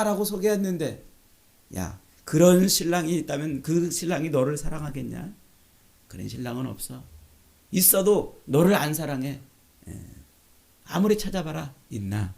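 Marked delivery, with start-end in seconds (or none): 1.8-12.3 mocking. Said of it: "라고 조롱을 하고 있는 것이죠".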